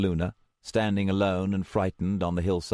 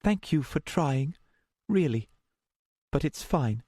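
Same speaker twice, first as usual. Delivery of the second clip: calm; 8 semitones higher than usual. A narrator's reading. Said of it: "she looked calm again".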